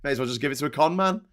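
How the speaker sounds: fast, breezy mock rich voice; airy hurried sarcastic aside; mock carefree rich person. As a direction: toss it off like money means nothing. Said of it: "how some people feel about money".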